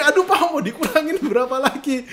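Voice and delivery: high, loud mock protest from a haggled-down seller; keluhan penjual. Penjual mengeluh harga ditawar lagi. (mengeluh dengan nada tinggi dan keras)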